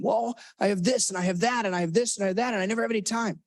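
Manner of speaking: lightly voiced stressed kid. Role-played kid listing obligations.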